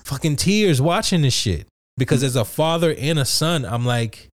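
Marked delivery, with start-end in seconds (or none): 0.1-1.7 high-pitched, through a laugh; amused, laughing. Real, not acted. Man confessing he nearly teared up beside a coworker, laughing. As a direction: laugh as you admit it, voice lifted high. Laughs telling of near-tears at work.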